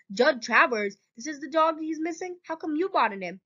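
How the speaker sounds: high-pitched, incredulous questions; startled questioning. A narrator's reading. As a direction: react in disbelief, pitch jumping up. Doctor startled by dog owner's name.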